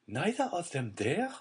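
dazed, half-voiced question; stunned disbelief. A narrator's reading. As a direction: repeat it numbly in shock. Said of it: "she again said".

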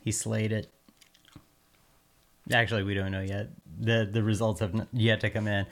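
talking while chewing gum; words round a wad of gum. Real, not acted. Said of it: "I've got gum in my mouth".

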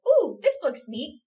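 slow, bright high delighted coo; excited ooh. Retold or imitated. Retelling her thrill at finding a play. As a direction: gush over finding the show. Excited quote of own reaction.

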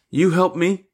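put-on high, rising child's plea; childlike faith. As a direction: ask it like a trusting little child. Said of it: "with childlike faith".

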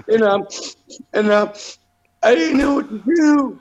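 put-on high, timid teen boy voice; nerdy kid voice.

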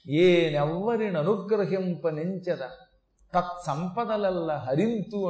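slow, measured chanting of a sacred verse; quoting the Mother's words, slow and chanted; recited verse. Retold or imitated. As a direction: intone it slowly like scripture. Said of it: "అంటుందమ్మ".

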